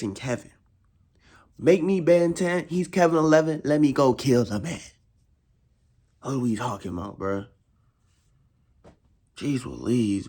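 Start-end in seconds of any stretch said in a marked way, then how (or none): 1.6-4.8 fired-up yell. Real, not acted. Hyped rant about trusting Kevin.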